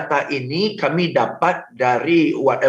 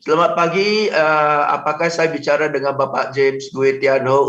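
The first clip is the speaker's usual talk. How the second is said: limp scripted greeting. Shown as a demonstration. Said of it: "gue tolakin aja dah".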